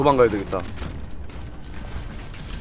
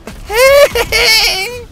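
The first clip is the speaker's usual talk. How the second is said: laughing shriek; 13 semitones higher, 6 dB louder than usual. Real, not acted.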